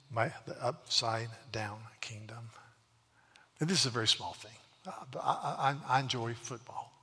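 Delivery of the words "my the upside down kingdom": a soft awed whisper, slower; whispered reverence; hushed whisper. Real, not acted. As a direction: breathe it out in wonder. Hushed awe at the kingdom.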